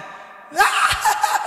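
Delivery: a high, hammed-up wailing cry mixed with a laugh; mock mourning wail. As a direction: fake a theatrical sob, half laughing. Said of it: "nó chơi như ca vọng cổ mà".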